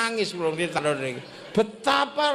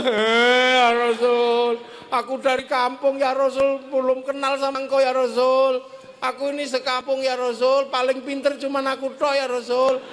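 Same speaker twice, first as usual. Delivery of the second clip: humble villager in shock; startled villager. Retold or imitated. Villager meets the Prophet.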